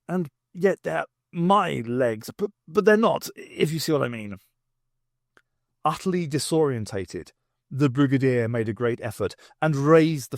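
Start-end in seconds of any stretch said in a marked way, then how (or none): 0.1-4.4 flustered confusion. Acted. Brigadier to the doctor, flustered and confused. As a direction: stammer out the confusion.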